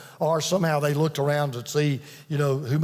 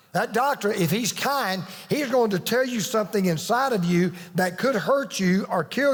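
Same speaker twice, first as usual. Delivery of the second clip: raised, driving sermon voice, higher pitch; preaching; 4 semitones higher than usual. Acted. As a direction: preach it out to the congregation with conviction. Preaching at full force.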